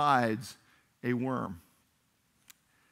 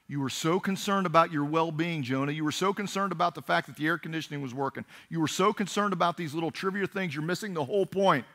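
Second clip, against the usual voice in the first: raised, insistent scolding; impassioned rebuke; 4 semitones higher, 4 dB louder than usual. Acted. God rebuking Jonah for missing the point, impassioned. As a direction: drive home each repeated accusation.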